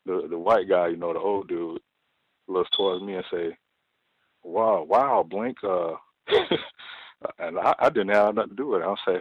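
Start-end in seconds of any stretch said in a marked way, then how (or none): 4.4-6.4 imitating a much higher, louder fake gasp; mocking the old guy's staged wow; mock amazement. Imitating old guy baiting the speaker.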